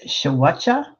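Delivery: "Shawacha" for scorcher, New England style; New England accent. Retold or imitated. Host reads out a chatter's dialect word, New England accent. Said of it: "in New England. Um, translation, scorcher".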